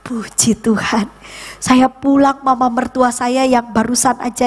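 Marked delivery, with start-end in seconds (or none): 0.1-1.1 slow, whispered thanks; drawn-out thankful whisper, retold; hushed praise. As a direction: breathe it out slowly in gratitude. Quiet thanks for husband's health.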